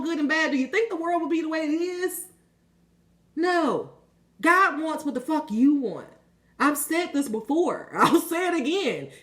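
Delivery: fervent, high-pitched preaching; passionate. Real, not acted. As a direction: drive the point home with real passion. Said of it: "I'm so passionate about that".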